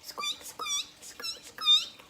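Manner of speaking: tiny, very high squeaks; mouse squeak. Shown as a demonstration. Storyteller shows children what a mouse says, very high squeaking. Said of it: "What does a mouse say".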